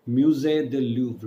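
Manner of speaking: slow careful French Musée de Louvre; slow French word. Shown as a demonstration. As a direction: sound out Musée de Louvre slowly. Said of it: "let me give you the spelling".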